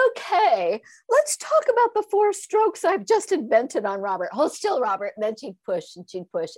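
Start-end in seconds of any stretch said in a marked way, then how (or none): 0.1-5.1 retold yelling. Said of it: "So she's yelling at me".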